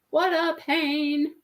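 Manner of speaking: slow, drawn-out complaint. Real, not acted. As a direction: stretch it out wearily.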